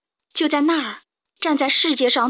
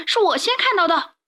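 elephant; 8 semitones higher than usual. A narrator's reading. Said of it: "大象说".

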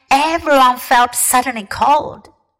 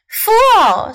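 savage snarl; 10 semitones higher, 3 dB louder than usual. A narrator's reading. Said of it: "with a savage smile that was almost a snarl".

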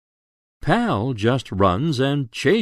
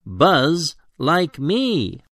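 bee voice; 5 semitones higher, slower than usual. Acted. Bee speaks in story.

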